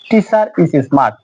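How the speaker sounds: very slowly, "teacher" linked into "is" with r; linking r demo. Shown as a demonstration. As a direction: join the r of "teacher" to "is". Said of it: "এখানে আর এর পরে vowel আছে". (খুব ধীরে, "teacher"-এর আর "is"-এর সাথে জুড়ে)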